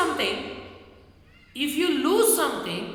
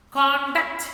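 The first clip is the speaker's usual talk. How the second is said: CONduct, louder on the first syllable; stress on first syllable; 3 semitones higher, 5 dB louder than usual. Shown as a demonstration. Teacher repeating the noun for children, CONduct stressed first. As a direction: give conduct a strong CON. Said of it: "that will become noun".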